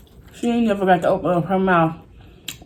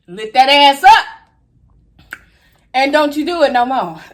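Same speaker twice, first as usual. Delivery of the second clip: excited; 6 semitones higher than usual. Real, not acted. Catching something on camera.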